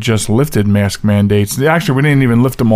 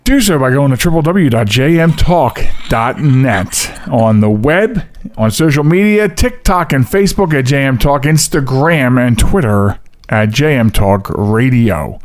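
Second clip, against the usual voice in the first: all in one breath. Shown as a demonstration. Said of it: "trying to get that whole line out in one breath".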